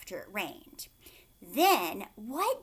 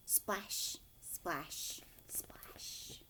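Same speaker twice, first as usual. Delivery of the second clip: whispered, getting softer each time; fading whisper; 4 semitones lower, 11 dB quieter, much slower than usual. Acted. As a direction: let each splash die away. Sound words fading away.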